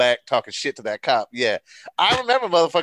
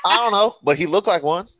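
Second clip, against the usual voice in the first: high, louder answer through laughter; amused, laughing; 5 semitones higher, 4 dB louder than usual. Real, not acted. Friend answering a joke question about Greg, laughing. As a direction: crack up while getting the words out.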